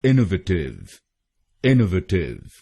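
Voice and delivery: teacher sounding out इनोवेटिव for learners; careful pronunciation demo. Shown as a demonstration. Teacher shows the first way to say इनोवेटिव, clearly. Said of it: "पहला pronunciation है".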